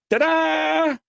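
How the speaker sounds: mock triumphant fanfare. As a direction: present it like a magic trick. Proudly revealing the holy water.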